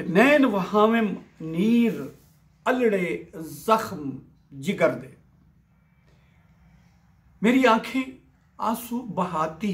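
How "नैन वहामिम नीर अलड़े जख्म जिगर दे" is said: slow, drawn-out verse line; poetry recitation. Acted. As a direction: recite the line slowly, word by word. Recites the verse being explained.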